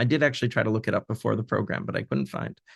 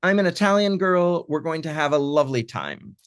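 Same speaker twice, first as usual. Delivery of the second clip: high, playful translation of her line; 4 semitones higher than usual. Acted. Translator rendering the girl's boast in English, high and coquettish. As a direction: sell the Italian-girl act. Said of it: "suddenly she says".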